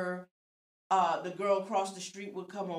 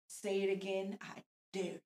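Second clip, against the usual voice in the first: mock dare to a mouthy kid; half-laughing threat, daring her to repeat it; 6 dB louder than usual. Mom daring her twelve-year-old to say it again, teasing threat. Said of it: "I'ma say".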